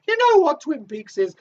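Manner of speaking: high voice. Acted. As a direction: jump up into the silly high voice. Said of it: "I don't know why I'm speaking like this".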